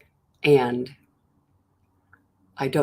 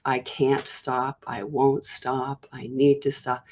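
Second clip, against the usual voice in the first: each "stop" leaned on, drawn out slowly; slow, insistent inner voice dwelling on "stop"; emphasis on stopping; 4 dB quieter, slower than usual. Acted. Speaker voicing the belief behind compulsion, slow and emphatic. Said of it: "emphasis on stopping".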